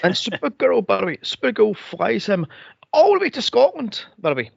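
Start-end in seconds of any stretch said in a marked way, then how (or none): 2.9-4.0 incredulous. Real, not acted. Incredulous plot point.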